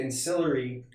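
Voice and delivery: celery said close to 'SILL-ery'; short tight first vowel in celery; celery as 'SIL-uh-ree'; contrasting pronunciation. Shown as a demonstration. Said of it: "it's just how you say it".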